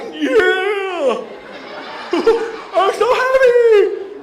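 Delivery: put-on overjoyed child shrieking with glee; joyous little kid. Speaker voices a laughing kid in a photo, joyous high squeal. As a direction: squeal it, high and loud, stretched out. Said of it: "he's so joyous. He's like".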